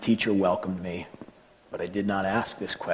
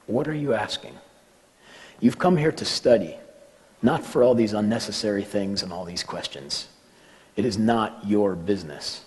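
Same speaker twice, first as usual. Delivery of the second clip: lightly voiced teacher scolding a pupil, raised pitch at first; rebuking teacher. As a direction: imitate a teacher's mild reprimand. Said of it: "he looked at me strangely and said".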